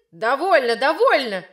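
учитель резко обрывает; стой, хватит, с досадой; раздражённое «довольно». Acted. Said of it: "неистово замахал руками учитель". (раздражённо обрывает ученицу)

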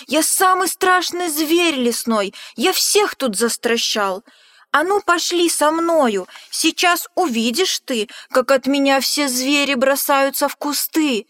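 loud, high, puffed-up bragging; bold boast. Acted. Mouse loudly bragging to the Gruffalo that he's the scariest. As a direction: brag as big as a tiny mouse can. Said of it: "мышонок пропищал".

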